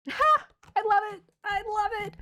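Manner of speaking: high, loud burst of joy; thrilled by the reading; excited delight. Real, not acted. Tarot reader delighted by the card, excited.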